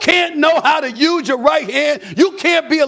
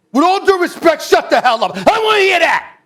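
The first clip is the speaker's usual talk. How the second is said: shouting at Randle; 3 semitones higher than usual. Real, not acted. Host yelling at Randle to stop complaining. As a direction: tell him off, full voice.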